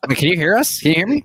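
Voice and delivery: calling out. Real, not acted. Checking if others hear him.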